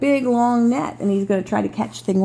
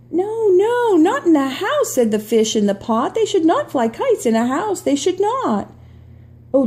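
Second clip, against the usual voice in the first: worried fish voice; 3 semitones higher, 3 dB louder than usual. Acted. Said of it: "There's the little worrier".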